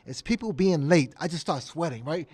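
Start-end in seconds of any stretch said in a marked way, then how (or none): 0.0-1.1 higher, firm mock admonishment; lightly acted host laying down a rule; a hint of imitated displeasure; Nelson Mandela. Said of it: "He said".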